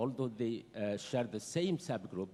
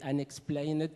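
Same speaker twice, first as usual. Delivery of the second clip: unexplained set off and raised in pitch; stress on unexplained; 5 semitones higher, 4 dB louder than usual. Real, not acted. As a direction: underline the word unexplained with your voice. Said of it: "I underline the word unexplained".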